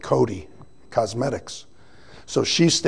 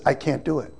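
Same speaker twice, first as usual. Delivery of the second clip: tearful wife; 10 dB quieter than usual. Retold or imitated. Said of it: "she's bawling her eyes out".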